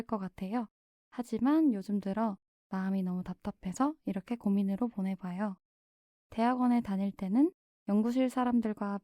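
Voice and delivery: steady, gentle reading of a listener's letter. Acted. Guest reads the listener's worry letter, calm reading. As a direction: read the letter aloud as if it were your own.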